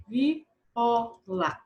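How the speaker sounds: "Viola" lightly separated into vi, o, la; syllable by syllable. Shown as a demonstration. Teacher starting letter B, "Viola" divided into syllables. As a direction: give each syllable of "Viola" its own beat. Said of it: "vamos primeiro separar a sílaba".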